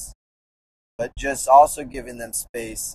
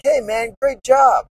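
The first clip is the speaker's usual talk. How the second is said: high, loud cheering call; shouted praise; 11 semitones higher, 8 dB louder than usual. Retold or imitated. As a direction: cheer the boy on from below. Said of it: "this guy was watching. He was like".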